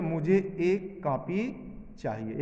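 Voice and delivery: मुझे एक कॉपी said slowly; slow correct form. Shown as a demonstration. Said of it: "शुद्ध क्या होना चाहिए?". (धीरे और साफ़, मुझे पर ज़ोर)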